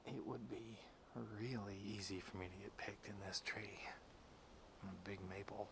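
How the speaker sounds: soft, hushed whisper. Real, not acted. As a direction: whisper up in the tree. Hunter whispering in tree stand.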